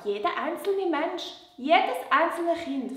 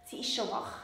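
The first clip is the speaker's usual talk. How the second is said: whispering; 4 semitones lower, 11 dB quieter than usual. Real, not acted. Peeking at sleeping puppet.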